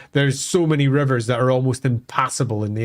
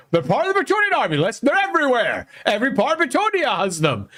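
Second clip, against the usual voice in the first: mock know-it-all; 7 semitones higher, faster than usual. Mocking what some writers say.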